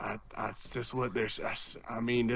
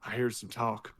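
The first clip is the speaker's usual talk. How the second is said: put-on southern drunk accent; 4 semitones lower, 4 dB quieter than usual. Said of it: "putting on an accent".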